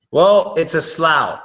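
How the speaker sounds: "slough" said like slau, rhyming with plow; teacher modelling "slough" as slau; slough as rhymes with plow. Shown as a demonstration. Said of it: "Some people actually say slough".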